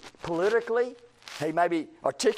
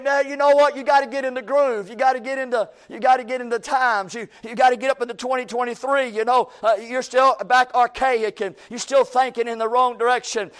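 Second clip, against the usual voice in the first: higher and louder, mock-lecturing; hammed-up know-it-all scolding; mock pushy critics; 4 semitones higher, 4 dB louder than usual. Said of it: "They're saying".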